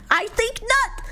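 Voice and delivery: breathy stage whisper. Real, not acted. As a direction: hiss it like a secret. Dramatic reveal of coincidence.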